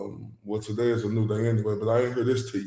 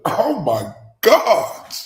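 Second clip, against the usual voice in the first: amazed; 8 semitones higher, 6 dB louder, much slower than usual. Real, not acted. Awed reaction to the singer.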